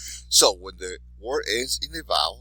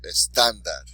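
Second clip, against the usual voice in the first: "estándar" with TÁN stressed; stress on the accented syllable; 4 dB louder than usual. Shown as a demonstration. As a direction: lean on the middle syllable of "estándar". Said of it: "emphasize that syllable".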